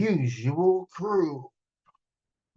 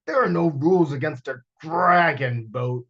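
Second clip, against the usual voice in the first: sputtering; 5 dB louder than usual. Acted. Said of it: "sputtered Bo's uncle".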